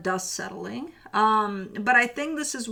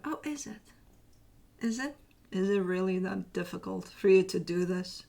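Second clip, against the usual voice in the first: teasing universe; 2 semitones lower, 4 dB quieter than usual. Retold or imitated. The universe teasing someone who calls it hard, mock-incredulous. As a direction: needle them with a teasing doubt. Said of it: "the universe making jokes here with you".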